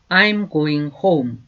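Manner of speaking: slow, clear teacher's model, each word apart; slow demo pronunciation; slow model sentence. Shown as a demonstration. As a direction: say it slowly for students to repeat. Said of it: "다시 한번 해볼까요".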